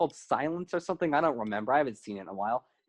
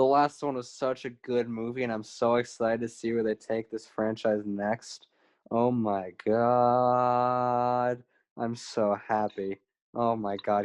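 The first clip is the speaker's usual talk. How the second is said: sarcastic fake excitement, lower and slower; 5 semitones lower than usual. Reacting to news of a Lion King prequel, sarcastic fake excitement. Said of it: "can you feel the happiness in my voice?".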